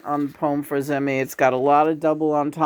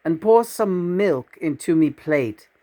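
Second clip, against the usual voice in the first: lilting verse, mostly higher in pitch; dog character in a poem; 4 semitones higher than usual. Acted. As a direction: recite as an eager dog asking for food.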